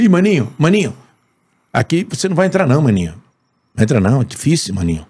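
lightly voiced doorman refusing entry; a hint of a doorman's put-on voice, dropping on each final word; Mota. Doorman turning away a hopeful visitor, lightly imitated. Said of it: "Aí o porteiro".

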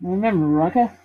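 lightly Australian character voice; a touch of Australian in the read-aloud; Australian accent. Acted. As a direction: slip into a slight Australian accent. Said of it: "I'm doing Australian, aren't I?".

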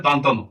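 careful model pronunciation of "দন্তন"; standard pronunciation. Shown as a demonstration. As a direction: say the letter name "দন্তন" distinctly for learners. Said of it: "এটার উচ্চারণ হবে".

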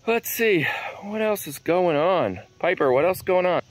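high, sing-song voice for the dog; pet talk. Real, not acted. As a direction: chat sweetly to your pup. Talking to her dog Piper.

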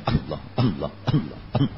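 imitating a chanted اللہ with the word clipped; mock the clipped chant; mangled Allah. Teacher imitating a man chanting Allah badly at a naat. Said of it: "کوئی پیچھے یوں کہے".

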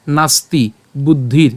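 slow, separated নাস্তি বুদ্ধির; demonstrated Sanskrit pronunciation. Shown as a demonstration. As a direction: say নাস্তি বুদ্ধির slowly, stopping on র. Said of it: "উচ্চারণটা কেমন হচ্ছে". (নাস্তি বুদ্ধির ধীরে, র হসন্ত উচ্চারণে)

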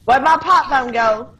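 put-on teasing copy of a Southern American accent. Player echoing teammate's odd pipe bomb line, mock Southern accent. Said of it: "Like a Southern American's accent?".

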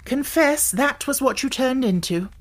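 high and triumphant. A narrator's reading. Alice triumphantly demanding the kitten confess, gleeful. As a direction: crow your victory over the kitten. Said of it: "clapping her hands triumphantly".

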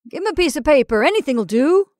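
urging. Acted. Man nearby prodding.

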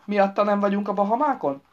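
loud, needling question; mocking bray. A narrator's reading. Husband needling Jáspis about the Bahamas, braying. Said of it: "nyehegte a férje".

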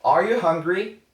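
high, loud practice question; asking partner. Shown as a demonstration. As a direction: ask "Are you hungry?" brightly up and loud. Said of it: "한번 연습해보죠".

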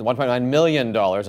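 grave anchorman read, stressing "million"; serious news anchor voice. Pretend. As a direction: correct the figure in solemn newscaster tone. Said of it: "I'm reading them in serious news anchor voice".

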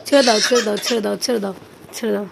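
calm him while he struggles; mother loudly soothing son under wet cloth. Real, not acted.

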